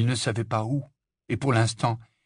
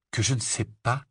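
questioning echo. Acted. Harry repeats Ron's accusation back, mildly incredulous. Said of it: "répéta Harry".

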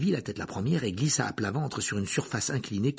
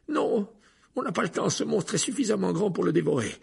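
urgent; 9 semitones higher, 4 dB louder than usual. Acted. Harry refuses, urgent danger.

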